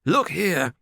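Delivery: a touch of anger. Acted. Ferrier fuming confronts suitors.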